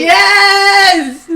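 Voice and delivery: high, loud burst of joy; excited yes. Real, not acted. Friend reacting to the callback, an excited cry. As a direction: squeal it out.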